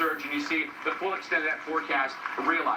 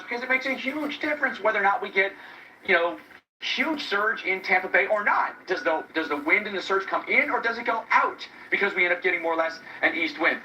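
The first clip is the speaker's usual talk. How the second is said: raised voice against the storm; shouting over wind; 4 dB louder than usual. Real, not acted. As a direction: project loudly over gusting wind. Live reporter outdoors in hurricane wind.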